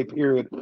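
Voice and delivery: period with a T sound at the end; final T pronunciation. Shown as a demonstration. Guest explaining what kids say, period with a final T. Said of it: "with a T at the end".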